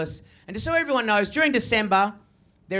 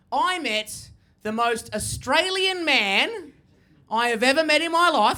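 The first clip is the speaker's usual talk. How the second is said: slow build; 4 semitones higher, slower than usual. Shown as a demonstration. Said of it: "Have a look at me".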